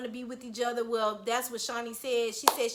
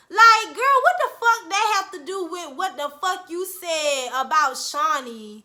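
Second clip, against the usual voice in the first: exasperated outburst; 3 semitones higher, 6 dB louder than usual. Real, not acted. Exasperated call-out of cast member.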